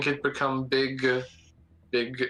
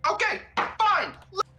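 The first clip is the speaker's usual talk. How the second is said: high reluctant voice. Acted. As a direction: give in grudgingly. Reluctant character agrees.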